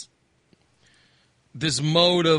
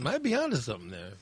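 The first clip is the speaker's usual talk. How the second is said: quick, softer mumble to himself; muttered repeat; 4 semitones lower, 7 dB quieter, faster than usual. Real, not acted. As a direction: toss it off under the breath, fast. Repeating remark under breath.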